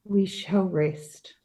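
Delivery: slow and worn out, barely any strength left; weary and slow, as if drained. Acted. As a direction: let the words sink out of a tired body. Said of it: "She speaks in a weary voice".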